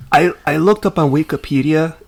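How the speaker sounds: a light, accidental hint of a Hispanic accent on "I, I looked up on Wikipedia"; slight Hispanic accent. Real, not acted. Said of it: "said that in a slightly Hispanic accent".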